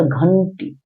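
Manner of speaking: घंटी with a nasal n before टी; teacher's model घंटी with a clear nasal half n; nasalised pronunciation. Shown as a demonstration. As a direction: sound the middle of घंटी through the nose. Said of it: "नाक के सहारे बोलना है".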